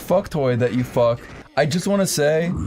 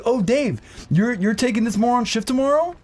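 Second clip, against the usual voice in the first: higher, sneering boss voice; higher manager voice; 9 semitones higher than usual. Retold or imitated. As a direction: play the snide female manager.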